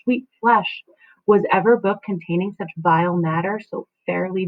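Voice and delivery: Juliet's lament read with rising feeling; dramatic reading. Acted. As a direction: read it as a torn young wife. Teacher performs Juliet's speech.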